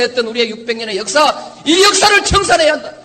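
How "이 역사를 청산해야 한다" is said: rising shouts to rouse the crowd; roaring rallying speech. Real, not acted. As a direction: build to a rallying cry. Political speech builds to rally.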